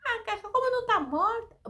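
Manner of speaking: high-pitched scoffing disbelief, imitated; mock derision. Preacher imitating mourners who laugh at Jesus, mock derision. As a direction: scoff at an absurd claim, exaggerated. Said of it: "começaram a rir de Jesus".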